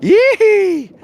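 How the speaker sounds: high, sharp whoop of joy; excited yelp. Real, not acted. Angler whooping to his stream viewers, excited yelp. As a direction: let out a sudden gleeful yee. Cheering out during live stream.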